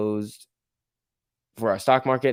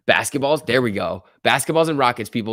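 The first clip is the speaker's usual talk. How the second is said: excited; 5 dB louder than usual. Real, not acted. Cheering the stock on.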